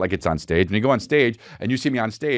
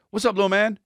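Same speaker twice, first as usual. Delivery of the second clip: put-on much higher, cooing at a toddler; high sing-song hello to a child; high baby-talk greeting; 13 semitones higher than usual. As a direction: greet a little kid brightly.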